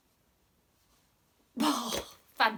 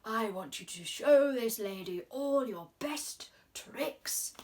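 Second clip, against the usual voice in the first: croaked; 3 dB louder, slower than usual. Acted. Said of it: "he croaked".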